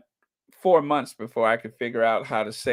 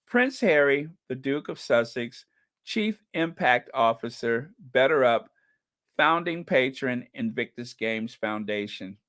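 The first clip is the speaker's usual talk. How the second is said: proud announcement. Real, not acted. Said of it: "Can I say that again?".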